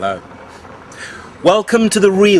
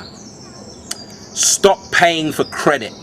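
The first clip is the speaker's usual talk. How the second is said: whispered; 3 dB quieter, much slower than usual. Acted. Whispered slow line in poem.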